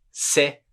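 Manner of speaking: "C'est" as seh; "C'est" ending on an open vowel; silent T. Shown as a demonstration. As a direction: drop the T of "C'est". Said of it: "não fala o T".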